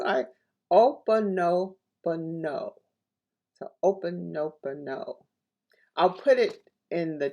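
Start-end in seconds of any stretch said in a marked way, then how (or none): 0.7-5.1 "Opanopono" said slowly, syllable by syllable, O-pa-no-po-no; slow pronunciation. Shown as a demonstration. Speaker showing listeners how to say "Opanopono", slow and careful. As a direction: spell out "Opanopono" with the ear, each syllable drawn out. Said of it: "I'm going to pronounce it slowly".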